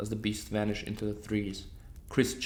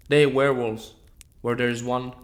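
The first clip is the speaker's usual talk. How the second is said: loud, raised insistence; urgent shout; 2 semitones higher, 7 dB louder than usual. A narrator's reading. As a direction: press the danger on them. Hunter shouting through door.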